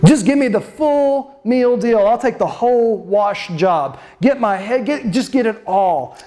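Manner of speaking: mock-magnanimous, with a little laugh; breezy self-important acceptance, lightly hammed up; prideful. Peter accepting the full wash from Jesus, with a note of pride. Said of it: "I detect a note ... of pride".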